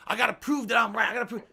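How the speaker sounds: high southern-accented mimicry; mock southern accent. Streamer mimics a troll needing the last word, southern accent. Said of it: "like, a southern accent?".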